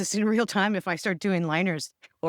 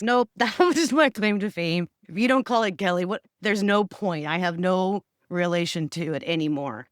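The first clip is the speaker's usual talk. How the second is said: firm refusal with a laugh; emphatic nope; 3 semitones higher, 4 dB louder than usual. Retold or imitated. To her boss, insisting firmly that the name mattered. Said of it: "And it's".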